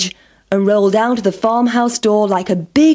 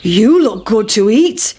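cow; 4 dB louder than usual. A narrator's reading. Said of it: "shouted the cow".

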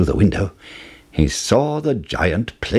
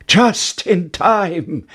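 slow, high relieved exclaim; relieved cry; 8 semitones higher, much slower than usual. Acted. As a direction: gasp it out with relief. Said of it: "cried Jack".

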